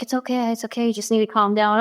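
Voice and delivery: lightly acted soothing reassurance; gentle retold comforting; retold calming sister. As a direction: talk an upset child down, imitated. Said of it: "And she calmed me down".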